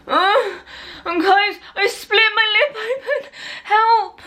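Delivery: high laughing help; play-panic through laughter; laughing mock panic. Real, not acted. Fake blood, mock panic.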